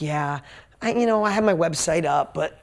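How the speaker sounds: lightly acted hesitant excuse, halting; mildly uneasy, with pauses and false starts; fidgety. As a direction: imitate someone squirming through an excuse. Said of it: "she was all fidgety".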